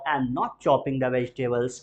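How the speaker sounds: slow, clear, word by word; slow model answer. Shown as a demonstration. Teacher models the answer for students to repeat, slow. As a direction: drill it slowly.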